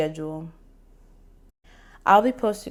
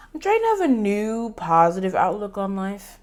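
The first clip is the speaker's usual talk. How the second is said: surfer voice; 3 semitones higher, 3 dB louder than usual. Acted. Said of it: "bobbing my head like a surfer".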